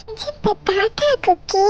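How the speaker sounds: laughing slowly at having won. Acted. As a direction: chuckle the words out smugly. Sister triumphs over child. (हँसते हुए, धीरे-धीरे)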